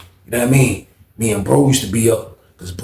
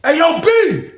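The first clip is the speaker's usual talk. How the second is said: calling out at the door; much slower than usual. Retold or imitated. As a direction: call down the tier. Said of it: "he's like".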